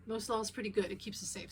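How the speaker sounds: talking while the car shakes; on a bumpy road. Real, not acted. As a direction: voice jostled by a bumpy ride. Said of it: "Sorry about the shaking".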